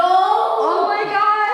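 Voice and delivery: high, drawn-out gasp of surprise; startled oh my God; surprised. Real, not acted. Lights react during ghost hunt.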